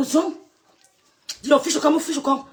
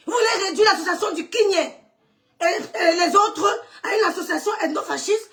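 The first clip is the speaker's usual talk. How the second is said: high, half-laughing, half-crying protest; indignant; 4 semitones higher than usual. Real, not acted. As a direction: protest through laughter and tears. Repeats the outraged accusation. (protestation indignée, entre rire et larmes)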